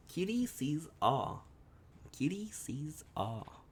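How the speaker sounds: slow, stretched oracle chant, lightly voiced; mystic oracle voice. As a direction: drag each word out like a mild fortune-teller. Repeats oracle catchphrase.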